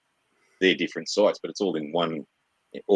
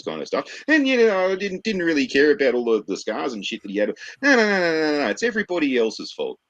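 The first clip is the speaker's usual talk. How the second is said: mock blaming parent. Ranting about a parent blaming video games, mocking. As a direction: sneer it out as a parent dodging blame. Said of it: "some dumb fuck parent decided".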